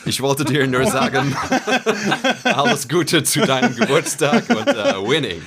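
imitating an American speaking German; lightly voiced American accent in German, slow. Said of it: "als würde der auf Deutsch sagen".

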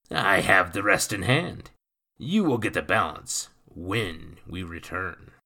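put-on gruff, loud old sea dog; rough pirate voice. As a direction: growl it like a salty pirate. Nathan's rough sailor voice.

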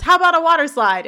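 put-on high, loud eager kid heckle; calling out. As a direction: shout a suggestion up from the audience. Kid calls out from audience.

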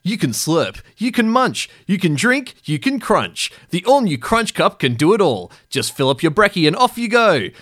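put-on punchy 2000s kids' ad announcer; toy commercial. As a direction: sell it like a Saturday cartoon break. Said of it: "Hot Wheels commercial".

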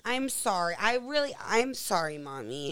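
put-on high, loud little kid pleading apology; sorry little boy. Son apologizing to mom after cursing, high pleading kid voice. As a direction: beg forgiveness like a caught four-year-old. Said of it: "He goes".

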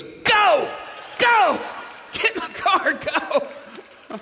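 frantic shouted order to get in the car; urgent shout. Retold or imitated. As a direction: shout it like you're fleeing gunpoint. Translator urgently shouting to leave.

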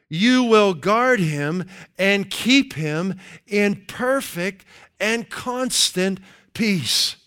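very slow, deliberate verse reading; slow scripture reading. Acted. Preacher reading the Amplified verse slowly. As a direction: draw out every word of the verse.

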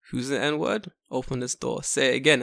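confrontational London voice. Acted. Man challenging kids who shouted a slur, London voice. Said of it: "Let's get my London voice ready".

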